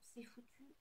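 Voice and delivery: hushed aside; whispering. Real, not acted. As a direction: whisper it to yourself. Whispered aside about a mistake.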